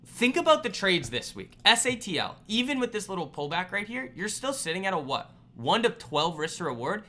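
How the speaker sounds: worked-up, emphatic listing of proof; exasperated rant. Real, not acted. Ranting proof to frustrated followers.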